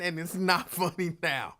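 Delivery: a laugh slipping in before "funny"; laughing despite saying not funny. Real, not acted. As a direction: deny it's funny while cracking up. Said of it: "It is not funny".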